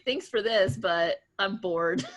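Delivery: a hint of a bratty shrug, drawn out on bored; entitled jerk. A young receptionist quitting her job, lightly mocking herself as an entitled brat. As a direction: sound like a spoiled young hire quitting. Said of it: "entitled millennial jerk was like".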